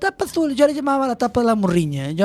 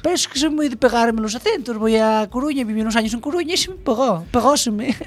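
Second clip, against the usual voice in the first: put-on Andalusian accent. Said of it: "me notáis un poco el acento".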